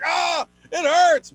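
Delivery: hammed-up cry as the shocker bites; mock pained scream. Girlfriend's mom hurt by ab shocker, mock pained yelp. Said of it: "she starts screaming".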